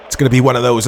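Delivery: words a bit thick from a sip of water; slightly garbled after a gulp of water; after a swig of water. Real, not acted. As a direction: talk just after drinking. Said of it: "Sorry, I was having a swig of water".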